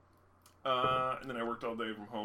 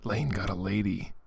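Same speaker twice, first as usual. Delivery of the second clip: slow, loud teasing reveal; teasing announce; 4 semitones lower, 7 dB louder, slower than usual. Pretend. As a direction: announce it to tease.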